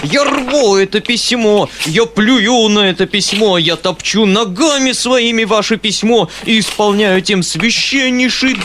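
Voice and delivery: high, loud ranting tirade; furious shrieking. A narrator's reading. Foma rants at the uncle, shrieking furiously. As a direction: tear and stamp on the letter in fury. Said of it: "взвизгнул Фома, мгновенно воспламеняясь".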